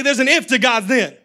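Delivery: call-and-response, loud and laughing; congregation repeating. Shown as a demonstration. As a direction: lead the crowd to repeat it. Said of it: "Look at three people. Say".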